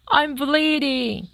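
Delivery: slow, high, loud yelp. A narrator's reading. Fox yelping as he comes to, high and loud. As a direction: yelp it on waking. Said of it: "the fox yelped".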